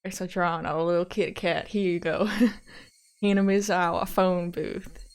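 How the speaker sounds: character voice for a written note, with a chuckle; detective's accent. Acted. Detective passes a note to his colleague, accented character voice. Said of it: "His notes are written in his accent".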